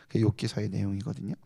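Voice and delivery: ordinary talk, nothing marked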